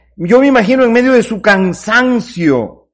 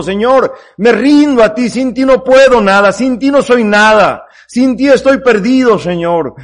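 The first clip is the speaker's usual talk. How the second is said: surrendering prayer; 3 semitones higher than usual. Acted. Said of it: "es un símbolo".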